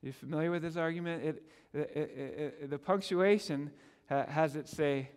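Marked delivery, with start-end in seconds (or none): none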